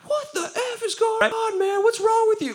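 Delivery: high, exasperated retort; a mock-angry "what's wrong with you"; incredulous outburst. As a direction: throw it back at him, baffled and annoyed. Bouncer cursing at speaker.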